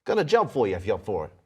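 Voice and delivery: mysterious voice in the head. Acted. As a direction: speak straight into their minds, quick. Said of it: "you hear a voice crystal clear in your head".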